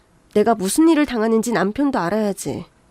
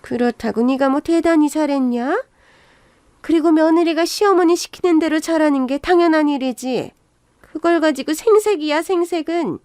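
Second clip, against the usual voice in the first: lightly voiced, huffy mother-in-law; a touch of indignant scolding; scornful mother-in-law; 5 semitones higher than usual. Mother-in-law dismissing daughter-in-law's claimed efforts, mildly scornful.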